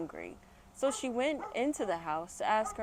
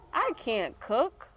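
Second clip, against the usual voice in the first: upset cry; 5 semitones higher, slower than usual. Acted. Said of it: "cried Shelly Ann".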